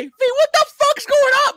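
high, loud mock outburst; mock outraged guy. Imitating a shocked viewer of a man in a dress, high and loud. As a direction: squeal it like a scandalized onlooker. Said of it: "you get in trouble if you say".

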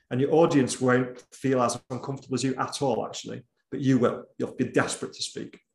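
ordinary talk

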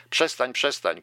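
loud, high cry of stop; wife shouting at Josarian to stop; sudden shout. Acted. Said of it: "krzyknęła nagle".

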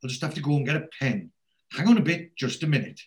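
a lightly voiced fussy Norma on the phone.

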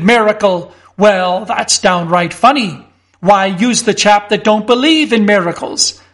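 a hint of a blustering policeman; scoffing constable. Constable Winch dismissing Mister Fotheringay's miracle, mildly scornful.

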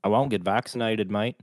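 mock Aussie attempt; amateur Australian accent. Shown as a demonstration. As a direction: try it as an Australian. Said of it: "Let's start with Australian".

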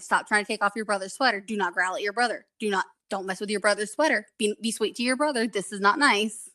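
quick, lightly acted mom telling-off; a hint of stern mom, fast; mom scolding. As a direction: rattle off a mild scold to squabbling kids. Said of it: "you've got to be mom".

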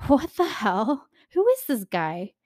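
a laughing what the hell, then a disbelieving question; laughing disbelief. Real, not acted. Vlogger laughing in disbelief at Charles's followers. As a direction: scoff and laugh at how absurd it is. Incredulous reaction to the story.

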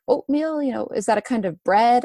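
lightly imitated British accent, puzzled question. Baffled British man answering a runner asking for oatmeal, attempted British accent. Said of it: "in his British accent".

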